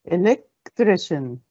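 "electrician" slowly, with a small break after "elec"; slow "electrician" in two chunks, "elec... trician"; broken into parts. Shown as a demonstration. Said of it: "How many syllables".

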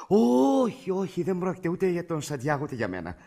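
high, loud, drawn-out no; emphatic denial. Acted. Caller corrects the doctor's wrong guess, emphatic and high. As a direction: burst out with a long correction.

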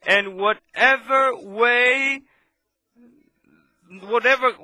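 slow, drawn-out shout up high; preaching shout. Real, not acted. Preacher calling to his brethren, slow high shout. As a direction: call it out over the congregation.

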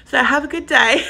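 hiccups breaking the words. Real, not acted. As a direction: talk between hiccups. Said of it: "I've got hiccups now".

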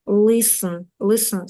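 "listen" repeated with no t sound; teacher modelling the silent t in "listen". Shown as a demonstration. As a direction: say "listen" as LIS-n, twice for learners. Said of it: "Не читається Т".

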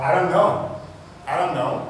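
"don't" run into "know" with no T; silent T. Shown as a demonstration. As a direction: link "I don't know" like "I donno". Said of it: "vous n'entendez pas le T clairement". (« don't know » lié, sans T)

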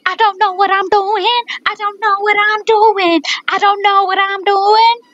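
high, hollow voice through a cup; talking into a cup. Real, not acted. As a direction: speak into a cup. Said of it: "I'm speaking in a cup".

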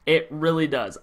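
emotional. Real, not acted. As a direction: let the disappointment sink the voice. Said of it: "I'm emotional now".

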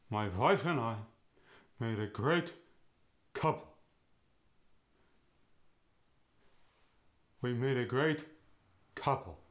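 "great" said "gret", rising on "great"; a Yiddish husband, up on the stress and down at the end; Yiddish accent. Shown as a demonstration. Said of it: "goes to".

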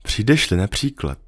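the fox patiently explaining to the little prince; lightly voiced fox. Fox imagines waiting happily.

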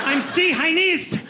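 "Chinese" as see-HINESE, high and slow; name the C, then finish "Chinese"; letter-split mispronunciation. Acted. Mocking the mistake, "Chinese" broken into C-hinese. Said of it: "You don't say the letter I".

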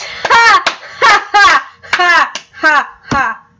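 high, loud separate ha-ha bursts; big mock laugh, easing off at the end; exaggerated forced laugh. Player crowing over a reference, hammed-up laughter.

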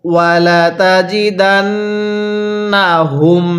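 slow, chanted Quranic recitation. Shown as a demonstration. Teacher recites the verse for students to learn. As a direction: draw each syllable out melodically. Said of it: "এরকমভাবে শিখব।".

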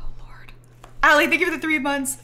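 whisper. Real, not acted. Thanking donors quietly.

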